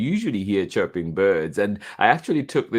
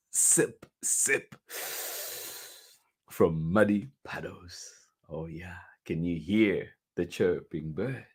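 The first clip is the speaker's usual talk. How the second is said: deliberate read-aloud, spaced little sips; picture-book reading; 3 dB louder, slower than usual. A narrator's reading. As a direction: read slowly to small children, stressing each image.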